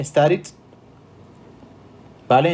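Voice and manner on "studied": STUDIED with its final D sounded. Shown as a demonstration. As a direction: close STUDIED on an audible final consonant. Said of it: "¿Sí ven esa D al final?". (STUDIED con la D final pronunciada)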